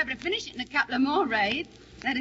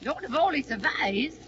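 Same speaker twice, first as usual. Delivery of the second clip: sarcastic echo. Acted. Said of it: "no need to be sarcastical".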